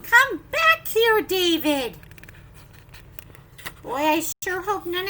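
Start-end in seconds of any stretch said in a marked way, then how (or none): 0.0-2.0 loud, slow call of come back here; stern parent calling out; calling after a child. Acted. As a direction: shout after a runaway boy. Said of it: "His grown-up is saying".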